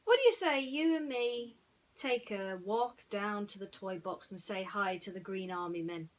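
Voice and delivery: loud, cheery invitation to cheer a friend; Woody, coaxing. Acted. Woody inviting Ham for a walk, cheery coaxing. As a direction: coax him like a hopeful pal. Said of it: "Woody asked".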